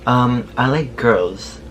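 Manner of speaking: slow, drawn-out mock hesitation; hesitant imitation. Imitating the driver asked what he likes, halting and unsure. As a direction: stall on the ums, stretching out each choice.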